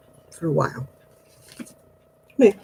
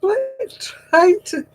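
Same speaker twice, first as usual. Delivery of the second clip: drawn-out exasperation; much slower than usual. Real, not acted. Exasperated with wriggling dog.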